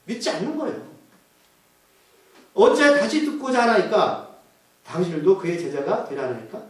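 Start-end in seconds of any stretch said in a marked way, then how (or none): 2.5-6.6 sarcastic. Acted. Blind man asking Pharisees if they want to be disciples, sarcastic. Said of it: "이거 비꼬는 거예요".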